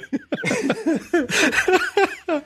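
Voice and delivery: a high burst of laughter. Real, not acted. Laughs at own joke.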